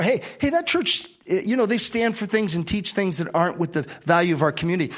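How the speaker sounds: high, lightly mocking critic. Pastor mimics a church critic, high and lightly mocking. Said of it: "that's what they said before".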